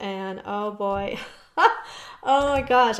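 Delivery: very slow, laughing through the words. Card reader giving a reading to viewers, laughing. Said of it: "I'm sorry I'm laughing".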